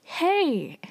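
high-pitched "yelled" exclamation, not full volume; mock yell. Yeol protests to Hansong over the booger, mock yell. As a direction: call out in indignant imitation of a yell. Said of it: "he yells".

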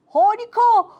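loud, high burst of delight; big excited cheer; delighted exclamation. Acted. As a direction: exclaim like a thrilled child. Child delighted by car wash news.

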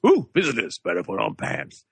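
a hint of Homer Simpson. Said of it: "Homer Simpson".

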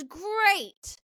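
high-pitched, excited delight; imitating an eager boy's thrill; exuberant. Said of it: "he's exuberant. He's excited".

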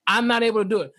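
fast flustered excuses; hurried whiny excuse; mock excuse. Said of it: "you say".

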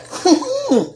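short high-pitched laugh; high chuckle. Acted. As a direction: chuckle high after the quote. Chuckle after quoting Jordyn.

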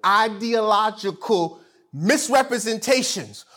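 "Ideological misrepresentations" drawn out syllable by syllable; slow, high, emphatic "Ideological misrepresentations". Shown as a demonstration. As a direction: sound out "Ideological misrepresentations" slowly and firmly. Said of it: "It just gotta go slower".

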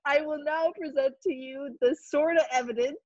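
a hint of a courtroom lawyer, laughing; pompous mock lawyer, stifling laughs. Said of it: "Imagine me being a lawyer".

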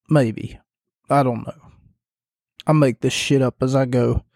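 hoarse, fading voice; voice giving out. Real, not acted. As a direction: voice cracking and worn. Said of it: "I was losing my voice".

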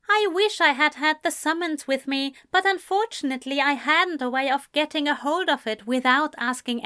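put-on poised young man insisting politely; lightly voiced Ezra. Ezra explains the summons.

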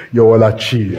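ringing declaration; preacher's shout. Real, not acted. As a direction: call it out to the crowd.

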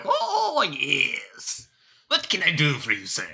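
a hint of a fussy gnome merchant; alchemist gnome voice. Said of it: "he's like".

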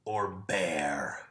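breathy whisper punchline. Pretend. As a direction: whisper it like a secret. Joke punchline after a pause.

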